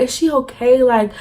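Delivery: mock-distressed plea, fading into filler; retold upset worry. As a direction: lightly imitate a tearful, worried apology. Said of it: "I sound like I beat the fuck out of her".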